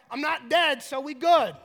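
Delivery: hammed-up upbeat reply; mock optimism. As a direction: play up the forced positivity. Mimics people's forced optimism.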